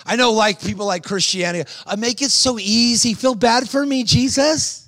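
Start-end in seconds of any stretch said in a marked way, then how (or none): 1.8-4.8 higher, pleading whine; whiny believer. Pretend. Preacher mocking a pity-seeking Christian, higher and whiny.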